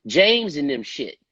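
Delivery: puzzled at being asked about someone else's film; confused. Retold or imitated. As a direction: question why he's even calling. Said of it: "And I'm like".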